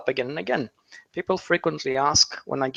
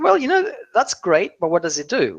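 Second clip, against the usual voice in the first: higher and louder, a quick incredulous "so what" voice; mock sceptical listener; 4 semitones higher, 4 dB louder than usual. Speaker voicing the audience's doubt to the crowd, mock sceptical. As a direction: toss it off like a doubtful client, pitch jumping up on "Well".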